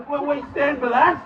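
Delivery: high, rising challenge to the crowd; rousing shout. Real, not acted. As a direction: shout the question for a roared answer.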